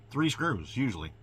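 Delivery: usual speaking voice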